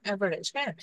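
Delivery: অ্যাভারেজ said firmly as the key word; stress on average. Shown as a demonstration. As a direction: lean on অ্যাভারেজ. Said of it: "একটা word আমি সবসময় জোর দিয়ে বলি". (অ্যাভারেজ শব্দে জোর)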